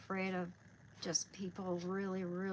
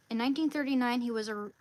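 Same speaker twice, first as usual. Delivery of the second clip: louder, higher read-aloud start; 4 semitones higher, 7 dB louder, faster than usual. Real, not acted. Speaker resumes the saint's life for viewers, reading aloud. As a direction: launch back into the written biography.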